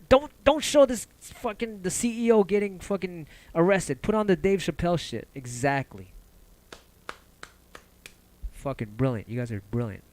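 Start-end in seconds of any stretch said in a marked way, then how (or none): 0.1-5.3 much higher, louder, in a put-on voice; mock panicked producer. Producer hiding a CEO arrest, frantic mock shout. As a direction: shriek the cover-up order like a frantic producer.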